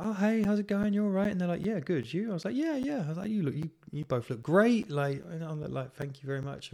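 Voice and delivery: high-pitched, chirpy small talk; high, eager imitation of greetings; mock friendly greeting. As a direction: act out over-polite pleasantries, pitched right up. Acting out friendly greetings in taxi.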